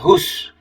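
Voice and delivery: whose said high and hissed like shooing a cat away. Shown as a demonstration. Teacher shows students how whose sounds, like shooing a cat. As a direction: draw out whose like a shoo to a cat. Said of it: "Seperti menggusah kucing ya".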